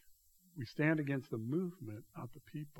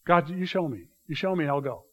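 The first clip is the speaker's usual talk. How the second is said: earnest plea; 3 semitones higher, 8 dB louder than usual. Retold or imitated. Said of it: "you might say".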